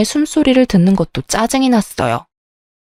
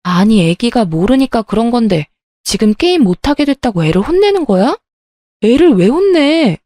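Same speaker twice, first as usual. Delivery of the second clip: angry protest. Retold or imitated. Wife shouts at husband for scolding their baby, angry and rising. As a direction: snap at him for scolding the baby.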